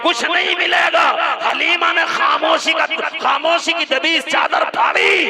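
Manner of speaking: high, loud preacher's shout; preaching at full force. Acted. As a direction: tear through the silence with the cry. (ऊँची, ज़ोरदार तक़रीरी पुकार)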